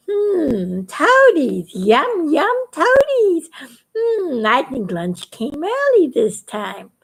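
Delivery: lightly voiced greedy bird licking its lips; hungry bird. Conno bird savoring the toads before lunch.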